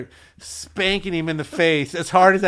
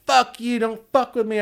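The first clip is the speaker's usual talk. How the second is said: mock angry drunk; 7 semitones higher, 3 dB louder than usual. Voicing the drunk's threat.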